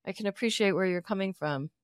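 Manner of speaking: low, measured and formal; calm therapist voice. Pretend. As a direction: answer like a calm counselor. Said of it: "let's role play this".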